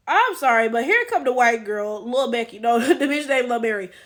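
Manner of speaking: usual speaking voice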